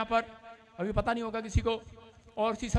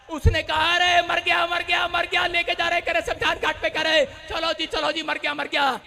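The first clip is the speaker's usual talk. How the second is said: raised, chanting sermon storytelling; insistent repeated phrases, easing off at the end; impassioned preaching narration; 8 semitones higher, 5 dB louder than usual. Real, not acted. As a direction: hurry the crowd along in a preacher's raised voice.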